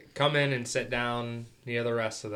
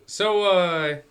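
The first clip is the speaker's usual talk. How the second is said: higher, louder friendly opener; casual bargaining; 8 semitones higher, 6 dB louder than usual. Acted. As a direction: sidle up and ask the price. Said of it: "go up and go".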